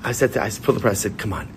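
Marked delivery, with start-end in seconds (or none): 1.2-1.5 laughing coaxing. Retold or imitated. Coaxing friend to kiss stones.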